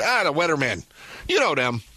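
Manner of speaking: imitating dad. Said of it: "He says".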